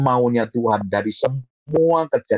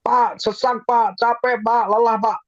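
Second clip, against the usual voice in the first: mock weary complaint; 9 semitones higher than usual. Voices a weary congregant complaining.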